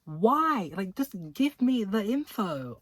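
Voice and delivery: high, loud mock plea; high and loud, demanding the info; exasperated high outburst. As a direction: whine it up high at the author. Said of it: "I was like".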